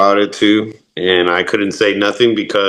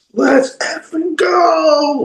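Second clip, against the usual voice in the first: acted, very high, hyped-up scream, drawn out. Retelling own reaction to a wrestling kick-out: imitating own screaming. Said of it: "I was screaming, like".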